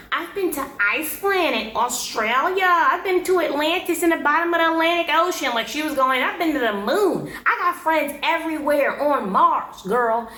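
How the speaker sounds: high, bragging mimicry of a show-off; mocking boast. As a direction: lay it on thick like a braggart.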